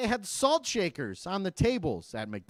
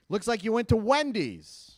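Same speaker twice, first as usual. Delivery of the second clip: bank agent; 3 semitones higher than usual. Acted. Bank agent reads back the charges.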